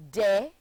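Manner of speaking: "de-de-cate-id" broken into four punched syllables; each syllable of "de-de-cate-id" hit on its own. Shown as a demonstration. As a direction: count out "de-de-cate-id" beat by beat. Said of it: "forming four syllables".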